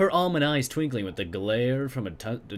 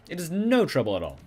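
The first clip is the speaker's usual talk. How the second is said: vampire voice; 5 semitones higher than usual. Acted. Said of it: "speak like a fucking vampire".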